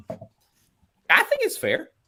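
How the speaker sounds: voice jumping to a very high pitch. Giving an honest opinion mid-conversation, voice going really high. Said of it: "My voice got really high there".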